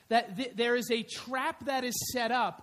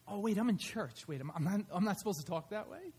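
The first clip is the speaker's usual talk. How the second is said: mock sheepish aside; 5 semitones lower, 6 dB quieter, faster than usual.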